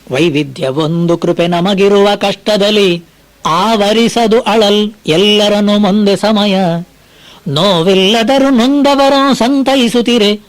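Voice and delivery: slow, measured verse chanting; poem recitation. Acted. Preacher reciting Mankutimmana Kagga to listeners, slow recitation. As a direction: lay out each line of the verse slowly.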